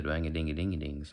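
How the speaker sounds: "dwang-a-dingy-dingy-dings" in a country twang; country accent nonsense syllables. Shown as a demonstration. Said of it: "Country is the".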